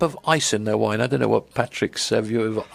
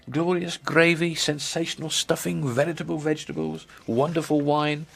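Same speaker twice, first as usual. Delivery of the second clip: savoured alliteration; 3 semitones higher, 3 dB quieter than usual. Real, not acted. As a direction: relish each alliterative pair, giving it room. Reading out a press release's alliterations.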